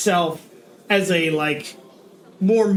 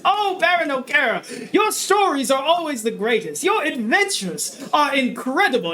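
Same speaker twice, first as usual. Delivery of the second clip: higher, gushing admirer's voice; adoring crowd; 6 semitones higher than usual. Acted. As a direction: fawn over the baron.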